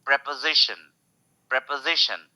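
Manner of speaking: प्रीपोजिशन as prep-uh-ZI-shun, weight on ZI; stress on ZI. Shown as a demonstration. Teacher showing the stressed syllable, prep-uh-ZI-shun. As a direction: land on the ZI in प्रीपोजिशन. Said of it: "जी पे stress है".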